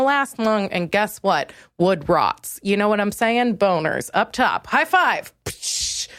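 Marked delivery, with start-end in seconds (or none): 5.4-6.1 short unvoiced psh burst; sound effect. Shown as a demonstration. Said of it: "sound effect".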